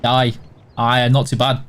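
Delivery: easy Yorkshire "Aye" for yes; Yorkshire greeting. Shown as a demonstration. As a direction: drop it low, "Aye, not too bad". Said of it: "you say".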